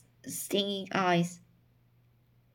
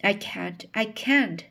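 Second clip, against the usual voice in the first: crying out. Acted. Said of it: "she cried wildly".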